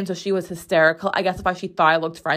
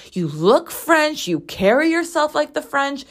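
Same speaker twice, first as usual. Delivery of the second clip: lightly voiced higher-pitched nail lady; 8 semitones higher than usual. Nail lady telling customer she looks French, lightly imitated gushing. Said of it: "She's like".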